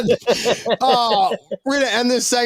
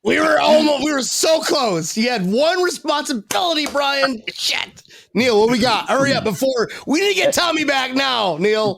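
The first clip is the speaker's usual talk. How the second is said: mock panic; 5 semitones higher than usual. Panicked after dead air.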